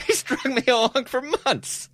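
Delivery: slow, high comic lament; hammed-up, high-pitched complaint, drawn out; mock dismay. Playing someone strung along for months, mock dismay. Continues as someone duped by robocall.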